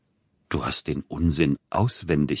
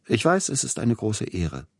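quick and polite; 5 semitones higher than usual. Acted. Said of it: "sagte schnell Peter Iljitsch mit einer Höflichkeit".

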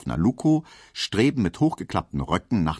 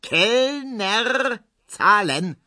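high, raised call; calling the waiter; much slower than usual. A narrator's reading. Herr Ziebland calling the waiter to pay, raised call. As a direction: call 'Kellner' across the beer garden. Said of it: "ruft Herr Ziebland nochmals".

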